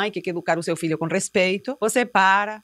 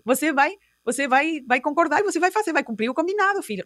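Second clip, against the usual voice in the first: pleading mother; 4 semitones higher than usual. Retold or imitated.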